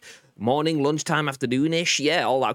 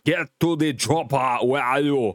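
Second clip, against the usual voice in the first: Arnold Schwarzenegger impression; 4 semitones higher, 4 dB louder than usual. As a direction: do your best Arnie. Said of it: "Arnold Schwarzenegger skin".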